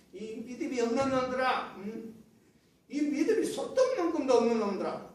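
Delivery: mildly acted angry rebuke; imitated anger. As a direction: act out a fed-up Moses scolding. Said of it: "뭐 화가 막 났다".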